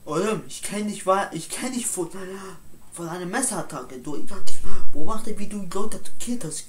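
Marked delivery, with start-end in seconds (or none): 4.0-6.7 suddenly loud and fast; loud accusation. Acted. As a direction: blurt the accusation out hard. Accusing him of knife attack. (laut und schnell beschuldigend)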